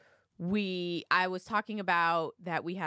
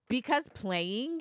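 higher, slow mock answer of a nervous kid; slightly raised, drawn-out kid reply; nervous child; 6 semitones higher, slower than usual. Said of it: "she immediately gets nervous".

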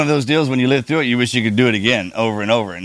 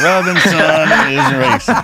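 movie quote drawl; 5 semitones higher, 5 dB louder, much slower than usual. Pretend. Quoting racing movie line.

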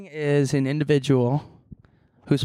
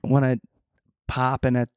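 put-on Midwestern accent. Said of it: "become another person".

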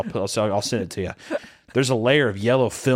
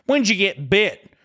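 slow, higher mimicry with a mock bad-English accent; 6 semitones higher, 4 dB louder, slower than usual. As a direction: imitate her bad-English accent, drawn out. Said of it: "Well, that's proper English".

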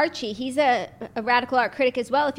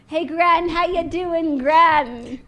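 higher, louder call to Gran; mock grandson; 6 semitones higher, 6 dB louder, much slower than usual. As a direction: sweet-talk the Queen. Harry calling grandmother.

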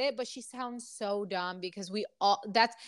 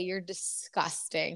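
imagined daughter; 6 semitones lower, 5 dB quieter, slower than usual. Retold or imitated. Daughter voiced judging dad.

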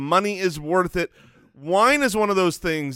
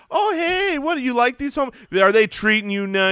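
put-on high, chirpy baby talk to a dog; loud fun chat; 6 semitones higher than usual. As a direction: lean into it like talking to a puppy. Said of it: "real fun, kinda loud, leaning into it".

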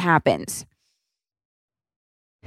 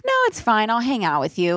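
briefly voicing the husband; 3 semitones higher than usual. Husband voiced in story.

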